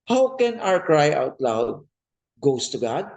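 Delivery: slow weighty preaching question; slow emphasis. Shown as a demonstration. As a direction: announce the sermon's question slowly.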